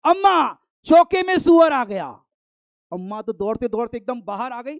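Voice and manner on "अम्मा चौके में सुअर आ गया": put-on child shouting high and loud for his mother; panicked child hollering from outside; loud call. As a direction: yell it out in alarm to Amma. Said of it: "जोर से आवाज लगाई".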